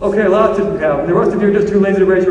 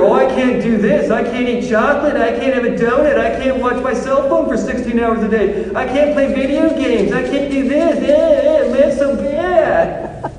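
whiny complaining; 3 semitones higher than usual. Retold or imitated. Mimicking whining about Lent.

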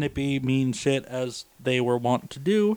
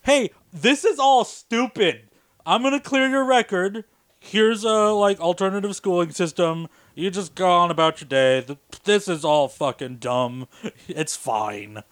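board head voiced; 2 semitones higher than usual. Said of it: "was just like".

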